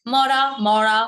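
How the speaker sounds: "মরা" first with a light r, then a pressed retroflex r; tap-then-flap contrast. Shown as a demonstration. Teacher drilling the two r sounds, contrasted. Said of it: "পার্থক্য কিন্তু অবশ্যই আছে".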